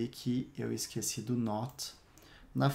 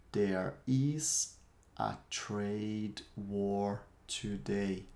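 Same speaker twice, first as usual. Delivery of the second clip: slow model phrase; 3 semitones lower, much slower than usual. Shown as a demonstration. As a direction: stretch each word out for learners. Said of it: "Eu vou repetir cada uma das frases".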